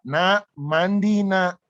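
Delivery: mild retold parent's call, drawn out; re-enacted parental holler, kept light. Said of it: "biasanya saya teriak".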